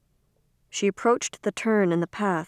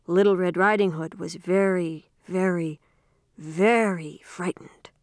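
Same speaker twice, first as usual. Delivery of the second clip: frightened whisper. Acted. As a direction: whisper it to scare a child. Sister scares sister with bedtime tale.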